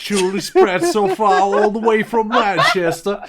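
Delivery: laughing while mocking the baron's line; laughing mockery. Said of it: "mocking the baron's accent".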